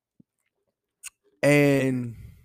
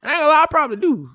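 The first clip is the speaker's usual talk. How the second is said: laughing admission; 13 semitones higher, 8 dB louder, much faster than usual. Real, not acted. Admits he's like his dad.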